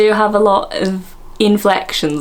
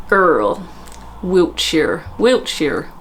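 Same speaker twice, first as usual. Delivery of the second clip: attempted West Country R; much slower than usual. Shown as a demonstration. Host still trying the accent, attempted West Country. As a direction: stress the R like a West Country speaker. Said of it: "West Country people".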